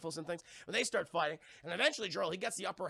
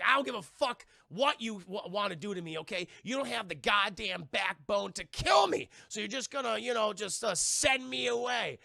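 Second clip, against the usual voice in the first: defiant; 4 semitones higher, 4 dB louder than usual. Retold or imitated. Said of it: "Zod's like".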